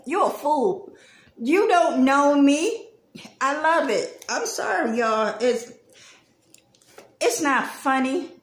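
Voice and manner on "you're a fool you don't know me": telling someone off. Retold or imitated. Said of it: "has we have told somebody".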